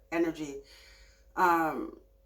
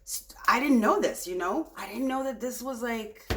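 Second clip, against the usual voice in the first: imitating an amazed, rambling discovery, pitched up; amazed viewer; 4 semitones higher than usual. Tarot reader voicing a Gemini viewer, amazed and pitched up. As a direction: gush like you just found out you have magic. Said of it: "You're like".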